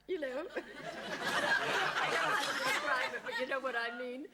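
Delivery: slow, loud, high laughing words; laugh, unable to describe it; real laughter, words dragged. Real, not acted.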